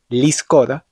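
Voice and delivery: Lizkor said slowly, each sound spelled out; teacher modelling Lizkor with a clear K; slow clear demo. Shown as a demonstration. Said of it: "la letra Kaf suena como una K".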